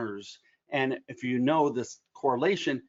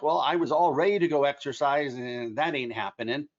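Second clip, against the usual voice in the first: ain't leaned on with a mild extra push; stress on ain't. Retold or imitated. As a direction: give the word ain't a little more weight than the rest. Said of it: "emphasis on the word ain't".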